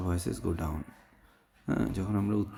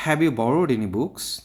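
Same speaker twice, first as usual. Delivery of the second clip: slow, louder question rising on "books"; voice going up; 4 semitones higher, 6 dB louder, much slower than usual. Shown as a demonstration. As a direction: lift "books" at the end. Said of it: "এটা up ভয়েসে বলতে হবে". ("books"-এ গলা উপরে তুলে)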